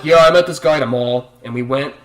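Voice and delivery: slow mock bimbo voice with a fake laugh; mimicking an oversharing teen coworker. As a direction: ham up the vapid bragging girl. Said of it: "being like".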